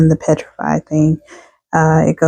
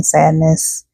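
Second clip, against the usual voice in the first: yawning through the word. Real, not acted. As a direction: say it mid-yawn. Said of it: "yawning and stuff".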